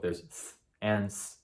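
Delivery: th lisped, s hissed clean. Shown as a demonstration. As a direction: show th then s, slowly. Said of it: "notice there's actually both".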